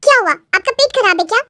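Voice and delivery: put-on astonished young bride, questioning away; shocked daughter-in-law. Bride questioning mother-in-law about the dung, shocked.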